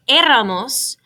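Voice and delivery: éramos stressed on the opening e; stress on first syllable. Shown as a demonstration. Teacher gives the nosotros form, stressing the first E of éramos. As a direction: lean on the E that starts éramos. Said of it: "we need an accent on the E".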